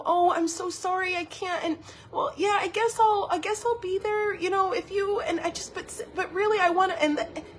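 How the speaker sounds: high-pitched, flustered people-pleaser mimicry; hammed-up apologetic dithering in a high voice; waffling apologiser. Mimics guilty, waffling excuses to friends.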